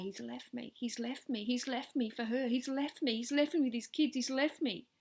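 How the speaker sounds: lightly imitated distraught wife, rising to a cry; retold sobbing. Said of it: "and sob and say".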